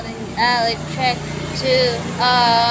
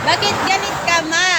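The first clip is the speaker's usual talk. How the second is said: higher, louder playful whine; mock whiny; 8 semitones higher, 5 dB louder, faster than usual. Streamer teasing mom for being angry, higher playful whine. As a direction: tease her like a sulky kid.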